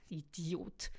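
a laugh bursting into a muttered insult. Acted. Lina lacht über Adrian, kichernd. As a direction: giggle then a quick dismissive jab.

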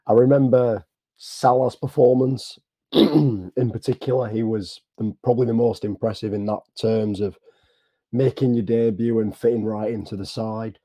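hoarse, strained voice with throat clearing; losing voice. Real, not acted. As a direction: talk through a hoarse throat. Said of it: "Sorry, I'm losing my voice".

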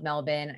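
Melbourne said "MEL-bin"; local pronunciation. Real, not acted. Host shouting out a city she loves, Melbourne said locally as "MEL-bin". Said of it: "I love the way you say it".

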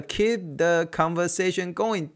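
"Keep" stressed, the phrase spelled out slowly; stressed catchphrase. Shown as a demonstration. Repeating his motto to viewers, "Keep" slow and stressed. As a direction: lean hard on "Keep" like a motto. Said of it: "这句话我讲的真的是不下十次了".

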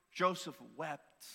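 slow, weighty reading of Joseph wept. Shown as a demonstration. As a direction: read Joseph wept slowly, letting it land. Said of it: "just those two words".

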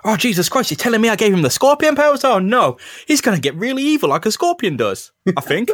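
high, fast, panicky whine; high panicked scientist. Acted. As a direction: squeal it out in a panic. Stillwell voiced in recap.

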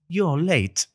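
Gandalf. Shown as a demonstration. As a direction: deliver it like a stern old wizard. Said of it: "a bit of Gandalf".

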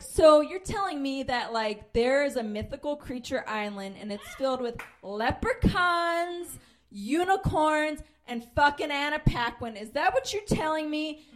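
mock-amazed grilling of a bigoted coworker; incredulous mock. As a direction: lay the sarcasm on thick, building outrage.

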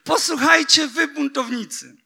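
high cry that fades by the last word; shouted again. Acted. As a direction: hurl it out, then let it drop. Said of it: "zawołał".

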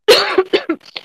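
sharp cough on tea; coughing fit from tea; choking cough. Real, not acted. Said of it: "My tea went down the wrong hole".

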